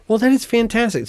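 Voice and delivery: high, loud Scottish exclaim; Scottish accent. Retold or imitated. Retelling a customer chat in a gushing Scottish accent. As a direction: gush in a Scottish lilt. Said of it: "I'm doing the Scottish".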